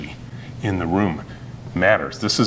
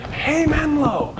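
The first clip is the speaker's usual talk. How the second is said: long, higher drawn-out call of Hey, Menlo; much slower than usual. Shown as a demonstration. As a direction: sing it out slowly to the room. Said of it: "step three steps in and go".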